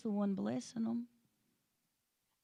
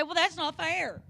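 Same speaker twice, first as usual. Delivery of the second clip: put-on whiny kid; 5 semitones higher, 4 dB louder than usual. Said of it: "looked at your mom or your dad and said".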